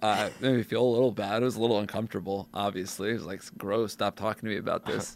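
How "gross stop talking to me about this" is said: ordinary talk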